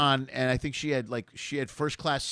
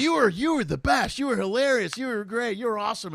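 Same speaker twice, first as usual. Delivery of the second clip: much higher rapid gushing praise; gushing fan; 8 semitones higher than usual. Retold or imitated. Audience member praising the other comic, much higher fast gushing. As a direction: gush fast at your favourite. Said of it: "they'll look at the other comic and go".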